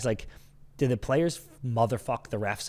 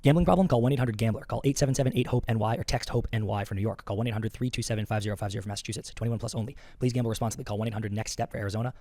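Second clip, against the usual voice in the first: fast, softer fine-print read; rushed legal disclaimer; 3 dB quieter, much faster than usual. Acted. Host racing through the required gambling disclaimer, fast and soft. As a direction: rattle off the fine print quickly.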